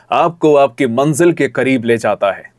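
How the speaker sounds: "आपको आपकी मंजिल के करीब ले जाता है" as its own phrase; phrased after a pause. Shown as a demonstration. Coach modelling the student's line, deliberate phrasing. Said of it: "pause का यूज़ कीजिए".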